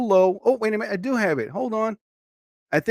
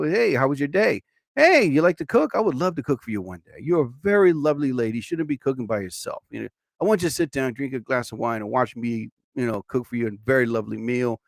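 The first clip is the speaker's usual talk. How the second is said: smooth charmer; 5 semitones lower, 4 dB quieter than usual. Pretend. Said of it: "I could be like".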